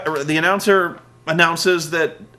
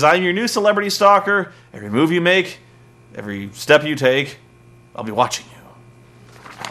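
creepy stalker. Acted. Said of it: "A little more creepy".

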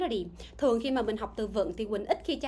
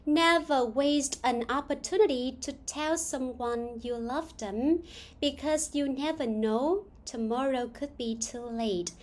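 slow, measured reading of an English quote; slow read-aloud; slower than usual. Acted. Teacher reads a saying for students to translate, slow read-aloud. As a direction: read it out slowly, word by word.

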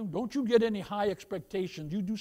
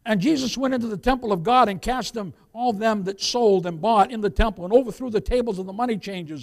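emphatic pulpit reading; scripture reading; 3 semitones higher, 9 dB louder than usual. Real, not acted. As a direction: declaim the verse to the congregation. Reads scripture aloud to congregation.

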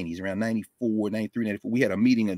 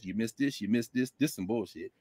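Paul's dry verdict; 9 dB quieter than usual. Retold or imitated. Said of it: "and then says".

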